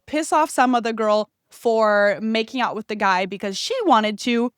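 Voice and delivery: ordinary talk, nothing marked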